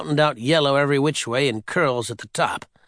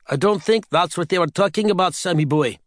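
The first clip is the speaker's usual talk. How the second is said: higher salty sailor voice; old sailor voice; 4 semitones higher than usual. Acted. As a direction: tease him like an old seaman. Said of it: "said the sailor".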